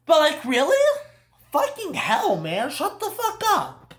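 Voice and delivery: high laughing exasperation; cracking up while telling her off; laughing in disbelief. Real, not acted. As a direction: laugh it out, can't believe her. Laughing disbelief at film character.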